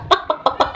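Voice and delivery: quick voiceless "pak-pak-pak"; mocking chatter noise. Vlogger dismisses critic's empty talk, mocking chatter. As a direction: imitate empty yapping under the breath.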